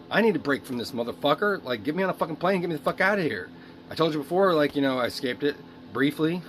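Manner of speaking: angry outburst. Real, not acted. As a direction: yell it at the father who won't listen. Angry rant at dad.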